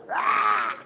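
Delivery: low, hammed-up rocker shout; low rock cheer. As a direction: drop low and growl it out. Hype cheer after announcement.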